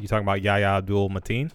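name rattled off fast; brisk, confident delivery of a name; quick and confident. Real, not acted. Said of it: "said that really quickly".

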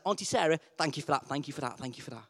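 low, very soft rote thanks; child's obligatory thank-yous, sinking away; dutiful little nephew. Retold or imitated. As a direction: repeat it by rote, fading to almost nothing. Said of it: "Then he went to Auntie Sarah".

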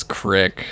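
"crick" with the short vowel of pick; mom's regional pronunciation. Retold or imitated. Imitating mom's word for creek, regional "crick". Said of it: "and she says".

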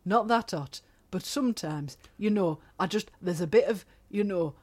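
Brit-abroad holidaymaker in a put-on accent; put-on British accent. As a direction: play a grumbling tourist with a regional British accent. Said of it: "I don't know where that accent went".

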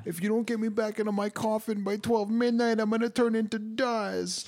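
high, slow spooky mummy. Pretend. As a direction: creak it out like a mummy. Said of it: "the mommy's back".

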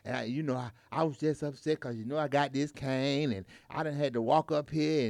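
soft, low retold apology; subdued, halting excuse; apologetic old lady. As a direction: imitate a contrite passenger explaining herself. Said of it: "I see, apologize".

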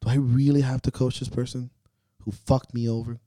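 venting like a coach who has had enough; exasperated inner voice. Retold or imitated. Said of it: "Sometimes you wake up and I'm like".

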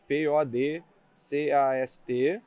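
P O D C A S T spelled letter by letter, slowly; spelling it out. Shown as a demonstration. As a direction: spell P O D C A S T one letter at a time. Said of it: "Vou soletrar".

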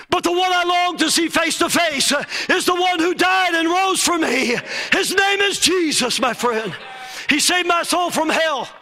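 rising, fervent revival preaching; preaching at full force. Acted. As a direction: build to a roaring gospel climax. Builds to full preaching fervour.

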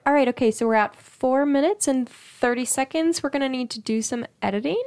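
a lightly acted flustered editor; mock editing panic. Sister retelling the editing session, mildly mock-alarmed. Quoting themselves during editing.

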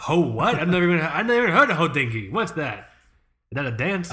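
lightly put-on Jewish New Yorker accent, quick and animated. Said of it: "it's my Jewish New Yorker voice".

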